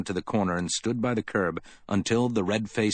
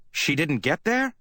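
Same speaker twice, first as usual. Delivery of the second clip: raised, higher voice, half-shouted; bawled; 7 semitones higher than usual. A narrator's reading. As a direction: bark the question in alarm. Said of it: "he bawled into her frightened face".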